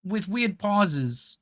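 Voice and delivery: a mid-tier Walken, pausing in strange places; Christopher Walken impression. Shown as a demonstration. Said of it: "So kinda talking like this, it's, like, kinda like a New Yorker".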